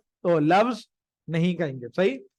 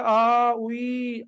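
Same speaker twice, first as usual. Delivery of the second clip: mock "aah, ooee" of pain, drawn out; mild demonstrated yelp of pain; imitated pain cry; 3 semitones higher, much slower than usual. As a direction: mimic someone moaning in pain. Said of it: "درد ہو رہا ہے نا، تکلیف ہو رہی ہے".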